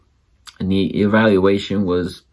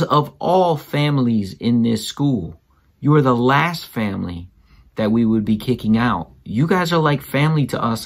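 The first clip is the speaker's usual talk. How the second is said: imitating the school head; 3 semitones higher than usual. Father mimics the school head reassuring him, higher and emphatic. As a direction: lightly mimic the head reassuring a worried parent. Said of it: "and this is how she said it".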